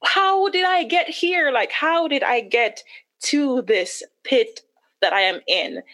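slow, drawn-out disbelief; bewildered self-questioning. Retold or imitated. Wife asking herself how she got here, bewildered. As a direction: ask it slowly, starting high in retold dismay. Retelling her despair at herself.

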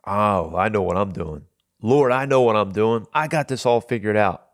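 mock cocky self-assurance, lightly played; sarcastic. Husband walking round the kitchen after an argument, sarcastic. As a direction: imitate your own sarcastic know-it-all boast. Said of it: "I go like this sarcastically".

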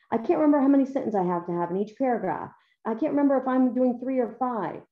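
put-on quick, pleading kid voice; a kid complaining they forgot; whiny student voice. Student asking teacher, acted.

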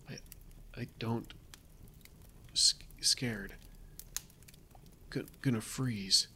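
stammering, shaky whisper from the cold; shivering with fear. Acted. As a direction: teeth chattering, too scared to finish. Freezing, scared journal writer.

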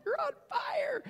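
student's sudden insistent warning, hammed up. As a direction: imitate her alarmed, insistent warning, drawn out. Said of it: "she said it with more authority".

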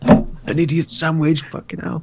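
high, slow mocking chef impression. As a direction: drawl it like a ranting TV chef. Impersonating TV chef.

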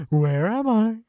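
high, plaintive wail of someone lost; mock panic. Podcaster mocking a lost character's worry, high hammed-up wail.

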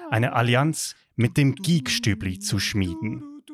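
solemn movie-trailer narration; epic fantasy narrator. Acted. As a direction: read it like an opening crawl. Star Wars crawl parody. (epischer Filmerzähler)

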